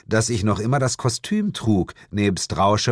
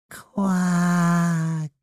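long, much higher croaked quack; frog quack; 11 semitones higher than usual. Acted. The frog answers its owner with a long quack.

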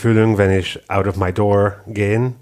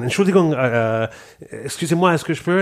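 high, rushed mock plea; high-pitched mock stressed request; hurried stressed tourist; 6 semitones higher, faster than usual. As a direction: play the flustered foreigner in a hurry. Stressed tourist asking directions.

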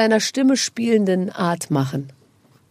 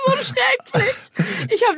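laughing. Real, not acted. Laughing at gum story.

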